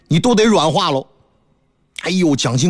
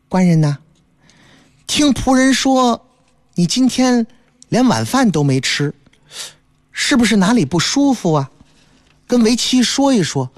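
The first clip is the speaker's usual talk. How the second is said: put-on gentle concerned young wife; wife Sanqiao; 4 semitones higher than usual. Wife asks husband why he skipped dinner, gentle concern.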